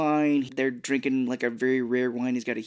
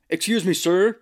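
put-on lady voice; 6 semitones higher, 6 dB louder than usual. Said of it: "She's like".

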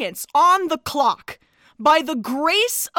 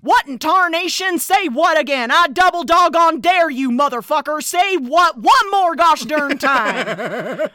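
Yosemite Sam. Pretend. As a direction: bellow it like an angry cartoon cowboy. Pulp Fiction line as Yosemite Sam.

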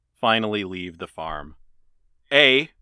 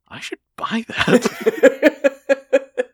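laughing; 13 semitones higher, 3 dB louder, much slower than usual. Retold or imitated. Retold wanting the turkey, laughing.

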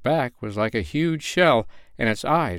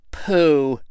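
drawn-out, higher dismissive puff; boastful little bird pooh-poohing; scoffing; 5 semitones higher than usual. A narrator's reading. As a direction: brush it off with scorn. Pipsy scoffs at his brother.

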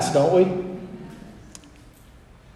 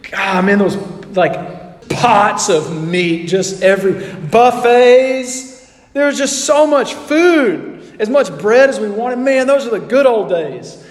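nostalgic reminiscing. Retold or imitated. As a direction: savor the memory of Egypt's meat. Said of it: "sitting around going".

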